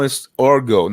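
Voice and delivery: Orgo with an open o, /ɑɹɡoʊ/; insisting on Orgo. Shown as a demonstration. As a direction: say it Orgo, not Ergo. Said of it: "not Ergo".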